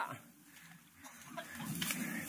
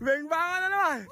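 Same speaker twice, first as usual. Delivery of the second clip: high excited shout; excited cry; 8 semitones higher than usual. Real, not acted. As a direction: yell with delight.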